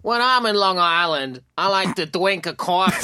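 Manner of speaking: Long Island accent with coffee as kwarfee; mock Long Island accent. Shown as a demonstration. Co-host's turn at the Long Island sentence, mock accent. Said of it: "See, he did it too".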